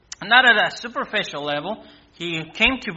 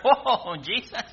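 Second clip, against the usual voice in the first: higher, half-laughing astonishment; mock startled reaction; 4 semitones higher, slower than usual. Startled listener answering Jesus about fire, mock shock. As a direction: react as if taken aback.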